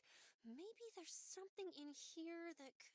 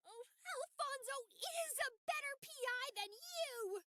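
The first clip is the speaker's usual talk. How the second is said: taunting shout; 11 semitones higher, 6 dB louder than usual. Acted. Taunting the boss.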